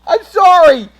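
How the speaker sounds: loud, high startled apology. Real, not acted. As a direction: blurt it out, caught off guard.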